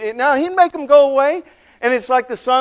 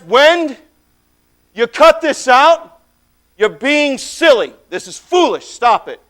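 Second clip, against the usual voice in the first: drawn-out rebuke, firm rather than yelled; stern scolding; 3 dB louder than usual. Acted. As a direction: scold the wind like a silly child. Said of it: "He yells at the wind".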